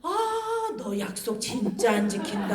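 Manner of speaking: drawn-out mock reproach; insulting mother. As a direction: lament at the child in a lightly acted singsong. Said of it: "막 애를 막 모욕해요".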